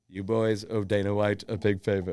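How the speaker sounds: slow, lightly done Trump voice; a hint of Trump, drawn out and slow; Trump impression. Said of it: "Do that again. That was decent".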